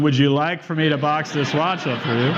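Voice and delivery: lightly voiced salesman, timbre shifted; salesman asking, how it felt. Mild salesman voice, retelling how the jeweler asked him. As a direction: replay the salesman's question the way it felt inside. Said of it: "He was also taking the watch and going".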